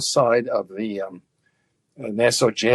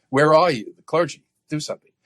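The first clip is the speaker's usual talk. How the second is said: mock snotty; 6 semitones higher than usual. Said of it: "that kind of snotty approach".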